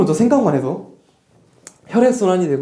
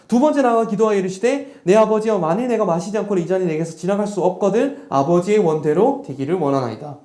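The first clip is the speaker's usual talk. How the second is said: a lightly raised, solemn reading of the prayer; scripture reading. Acted. Pastor reads Jesus' prayer to the congregation, solemn scripture reading. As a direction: read the verse out like a prayer.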